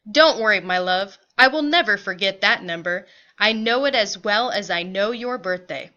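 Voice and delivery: firm, slightly animated reassurance; lightly voiced reassuring father. Father promises mother he knows the number, mildly emphatic. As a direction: play a husband reassuring his wife, punchy opening.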